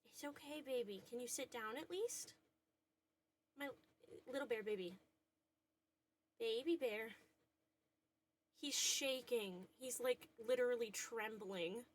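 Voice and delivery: calm a shaking dog softly; soothing. Real, not acted. Calming her trembling dog.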